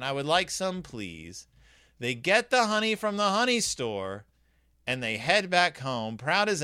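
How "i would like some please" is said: smug. Acted. Mama Bear smugly asking the honey store for some. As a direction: savour being right. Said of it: "Smug as you can".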